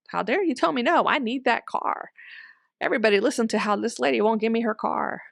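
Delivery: mildly indignant demand, rushing the last line; mock angry. Sister-in-law mockingly outraged at being refused: mild mock anger. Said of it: "the sister-in-law gets mad and says".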